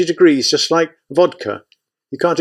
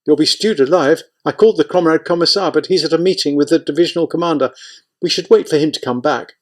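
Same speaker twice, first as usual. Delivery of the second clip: higher, pleading fast and scared; panicky pleading; 6 semitones higher than usual. Acted. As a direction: beg him not to risk it, voice climbing.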